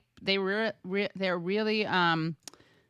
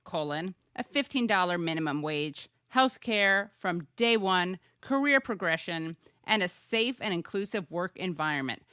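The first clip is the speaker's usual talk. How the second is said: Regina George voice. Retold or imitated. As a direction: read it like the queen bee of school. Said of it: "you kinda read that in a Mean Girls voice".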